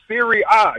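"Serie A" with the A said "ah"; Italian pronunciation. Shown as a demonstration. Caller correcting the host on the league name, Italian pronunciation. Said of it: "We pronounce it Serie A".

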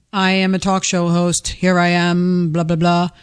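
a hint of a mock radio host; talk show host. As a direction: puff up like a self-important host.

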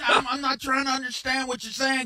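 a touch of mock outrage; mock indignant bro. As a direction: protest like an offended buddy. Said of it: "you sound like you're talking to us".

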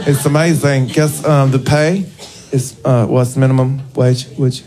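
lightly put-on Southern accent. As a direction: explain it to mom in a Southern accent. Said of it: "I'm doing a Southern accent for a reason".

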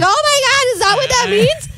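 retold shocked reaction. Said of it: "she's like".

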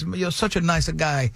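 slow, imitated Italian-accented English. Italian stranger thanking his helpful guide, Italian accent. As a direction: flatter him in a put-on Italian accent. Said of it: "I could tell by the accent".

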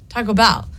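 "Taco Bell" with Bell punched; "Bell" carries the weight, "Taco" light; stress on Bell. Shown as a demonstration. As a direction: lean into "Bell". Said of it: "the emphasis should be on the bell".

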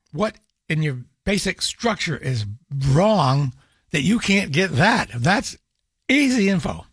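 exasperated scolding, no real shout; indignant telling-off without raising the voice; mild mock yelling. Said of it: "So I yelled at it a little bit".

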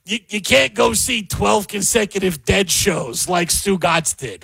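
slowed, drawn-out sports-radio host voice, lightly done; a light, slow mock of a radio host; Stu Gatz impression. Host imitating a radio personality while ranting about MSG bans, slow and drawn out. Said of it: "My Stu Gatz impression's pretty good".

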